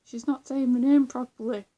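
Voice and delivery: hammed-up offended cry; attempted YouTuber impression. YouTuber offended at his mispronounced name, rough imitation. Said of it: "He sounds a bit like that".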